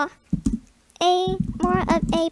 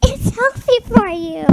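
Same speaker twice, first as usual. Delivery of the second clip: mock insistent, higher and louder; louder, higher mock insistence; 5 semitones higher, 6 dB louder than usual. Replayed louder take.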